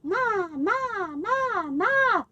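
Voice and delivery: high, sing-song taunt; a cheeky bird teasing; snorting taunt. Acted. Flugel bird mocking the squirrels, high sing-song. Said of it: "snorted the flugel bird".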